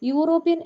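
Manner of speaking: "യൂറോപ്യൻ" said as "yoo-ropyan", starting with a y sound; "യൂറോപ്യൻ" spoken with a clear y glide at the start; pronunciation demo. Shown as a demonstration. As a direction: show that "യൂറോപ്യൻ" opens on a consonant y. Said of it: "pronounce ചെയ്യുന്നത് എങ്ങനെയാണ്".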